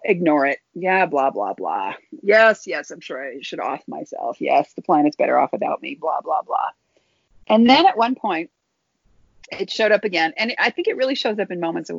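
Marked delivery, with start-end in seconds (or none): 0.7-6.7 bored sarcastic brushing off; dismissive mock agreement. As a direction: humour it with total disinterest. Mocking the voice dismissively.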